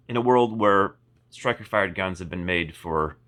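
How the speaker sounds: slow dramatic trailer narrator; movie trailer voice. Shown as a demonstration. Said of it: "sounded like a, like a movie trailer".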